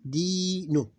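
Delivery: dinu split as long di, short nu; two open syllables. Shown as a demonstration. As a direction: hold the i in dinu, then add nu. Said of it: "two open syllables".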